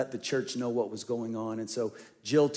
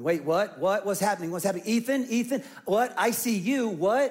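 imitating a panicked mother, pitch climbing higher; retold panic; 7 semitones higher, 3 dB louder than usual. Wife reacts to chaos at the hospital, retold panic. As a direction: act out rising alarm in rapid questions. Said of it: "Jill's voice changes".

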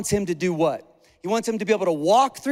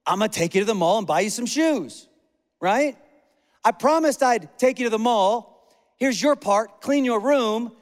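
parent voice; 3 semitones higher than usual. Retold or imitated. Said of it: "it goes like this".

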